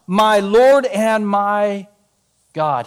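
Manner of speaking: very slow, reverent awe; awed confession. Acted. Thomas confessing to Jesus, slow and awed. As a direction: breathe it out in wonder.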